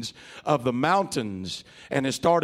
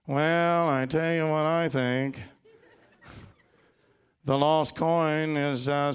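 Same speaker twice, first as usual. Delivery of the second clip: nasal monotone. Retold or imitated. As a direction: drone it like a dry analyst. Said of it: "nasally monotone voices".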